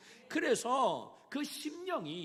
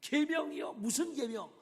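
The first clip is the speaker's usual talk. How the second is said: higher, louder cocky retort; the rich young man answering Jesus, swaggering; 5 semitones higher, 4 dB louder than usual. Acted. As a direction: brush it off as if it's too easy. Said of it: "으스대면서 예수님에게 이야기".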